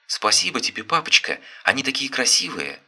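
put-on a small kid calling excitedly; joyful child. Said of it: "радостно кричали детские голоса".

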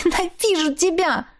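high, breaking cry of hatred; tearful outburst. A narrator's reading. Captive woman crying out at her ex-husband. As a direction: cry it out at him through tears. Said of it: "Я всё-таки заплакала".

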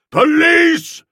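loud, booming roar. A narrator's reading. The dictator roaring for the police, a big loud roar. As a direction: roar it out, taking the bass part. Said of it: "roared the dictator, taking the bass".

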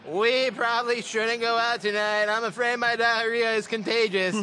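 lightly voiced old grandma. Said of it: "I would do the accent of my grandma".

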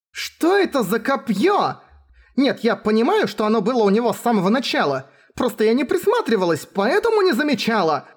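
high, squealing outburst; shrieky voice of an agitated girl; shrill. Acted. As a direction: protest in a shrill, flustered voice. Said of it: "Визгливый голос Мелти".

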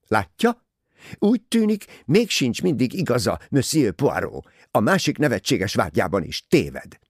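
triumphant retort. A narrator's reading. Rosalie proving Poirot wrong, triumphant. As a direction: rub his mistake in. Proved right, gloats at Poirot.

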